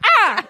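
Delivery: sharp high startled yelp; startled shriek. Real, not acted. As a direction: jump at the sudden noise. Reacts to the yell in headset.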